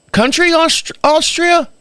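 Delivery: mock disbelief at the word Austria; incredulous high question. Teller asks the neighbor Austria in high disbelief.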